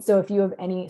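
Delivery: hoarse, voice giving out; strained, fading voice; losing voice. Real, not acted. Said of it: "sorry, I'm losing my voice more and more here".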